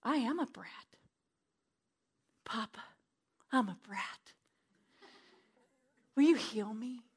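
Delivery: soft prayer. Retold or imitated. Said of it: "I would say".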